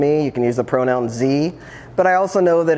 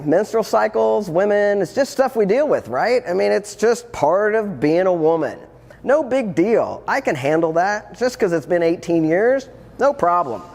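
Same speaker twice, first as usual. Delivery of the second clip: higher, breezy forced confidence; mock bravado; 6 semitones higher than usual. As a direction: talk yourself into it brightly, not quite convinced. Psyching self up about periods.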